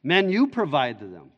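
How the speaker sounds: preacher voicing an insistent Jesus; emphatic command. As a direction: press it on the disciples as an order. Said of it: "It's very emphatic in the Greek text".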